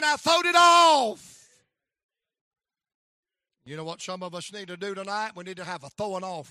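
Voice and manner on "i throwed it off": high, very loud, slow final cry; climactic shout. Retold or imitated. Daddy's triumphant cry to his son. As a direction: hold it out as the climax. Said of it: "He said".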